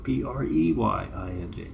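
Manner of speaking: "P R E Y I N G" spelled out to show prey, not pray; spelled letter by letter. Shown as a demonstration. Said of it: "the Mormons praying".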